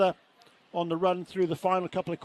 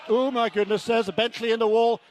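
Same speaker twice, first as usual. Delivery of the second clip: sudden alarm at the crash; shocked commentator; 2 semitones higher, 4 dB louder than usual. Real, not acted. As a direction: gasp it out as the car hits. Crash just seen live.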